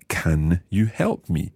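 slow, clear teacher model; slow model phrase. Shown as a demonstration. Teacher models the phrase slowly for students. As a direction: spell it out slowly for learners. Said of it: "how you say".

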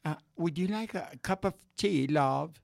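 English "would you like a cup of tea, love?" in a put-on British accent. Shown as a demonstration. Host showing off a British accent to his friends. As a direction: offer tea like a polite English mother-in-law. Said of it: "You want British?".

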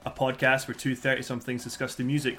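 polished, upbeat phone-operator intro; customer service voice. Acted. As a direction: read it like a friendly call-centre greeting. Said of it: "that was a proper, uh, that was customer s-, service voice right there".

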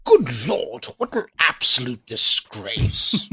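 mock outrage.

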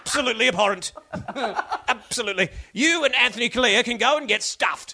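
lightly voiced outraged talkback host; a hint of a pompous broadcaster, laughing; Alan Jones voice. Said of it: "dueling Joneses going on".

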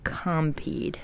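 whispered word said in reverse; backwards speech. Shown as a demonstration. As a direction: breathe it out backwards. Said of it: "Do it for Compeed".

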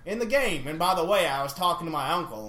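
lightly put-on southern accent. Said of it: "do this in a southern accent".

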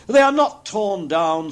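high, loud, slow exclamation; Scrooge, amazed relief. A narrator's reading. Scrooge finds his bed curtains still there, amazed. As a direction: cry it out slowly in relief.

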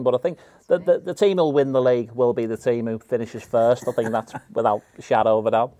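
lightly voiced impression of a retired footballer as pundit; even, earnest football punditry, lightly put on; Michael Owen. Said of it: "I do a bit of Michael".

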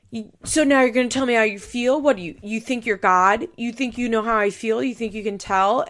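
angry father snapping at his daughter; retold yelling. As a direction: hurl the questions back at her. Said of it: "Butch starts yelling".

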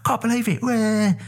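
very high, hammed-up Cockney; Christian Bale. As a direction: squeal out a mock Cockney rant. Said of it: "And he's all like".

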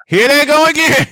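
high, loud exasperated cry. Real, not acted. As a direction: throw the line up loud and high.

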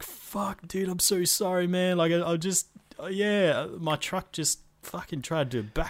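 high apologetic bloke voice; character voice. Retold or imitated. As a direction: squeak out a guilty apology.

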